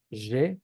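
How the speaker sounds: Y said as "zhe"; voiced zh pronunciation. Shown as a demonstration. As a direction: say Y with a buzzing zh plus e.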